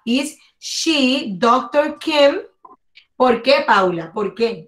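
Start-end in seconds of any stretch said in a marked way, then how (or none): 0.0-2.4 slow, lifted question read-out; slow model sentence. Shown as a demonstration. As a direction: model the answer slowly. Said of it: "Esa es la respuesta".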